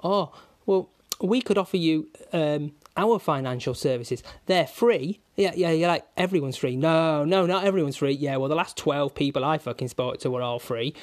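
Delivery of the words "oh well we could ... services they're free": mocking estate agent. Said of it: "then they go to you".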